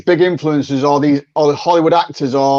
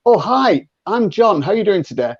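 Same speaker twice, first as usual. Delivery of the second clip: soft mirroring voice; 4 semitones higher than usual. Shown as a demonstration. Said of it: "then you have to say".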